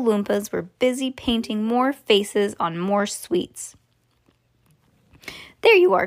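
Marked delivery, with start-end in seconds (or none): 5.6-6.1 high, loud showman's cry; raised-voice announcement, pitched up; cried out. A narrator's reading. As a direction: call it out brightly to the group, high-pitched. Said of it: "cried Mister Wonka".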